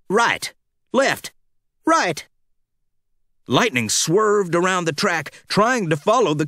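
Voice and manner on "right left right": Mater's instructions. Acted. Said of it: "Mater giving him instructions".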